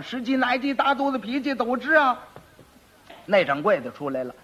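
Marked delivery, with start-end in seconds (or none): 0.0-2.2 a high, sing-song quack doctor's pitch; hawker's cry. Retold or imitated. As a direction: call out the cure like a street seller. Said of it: "他这一吆喝". (江湖郎中吆喝)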